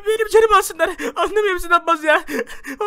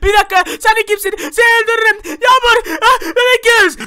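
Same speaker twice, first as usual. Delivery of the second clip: raised, higher confronting voice; acted alarmed threat; 3 semitones higher, 5 dB louder than usual. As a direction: challenge the intruder in alarm. Hero confronts the villain.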